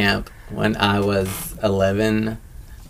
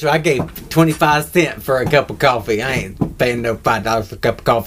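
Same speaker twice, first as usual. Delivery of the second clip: mom impression; 3 semitones higher than usual. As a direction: huff like a thrifty mom. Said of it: "that's my mom impression from Tyler".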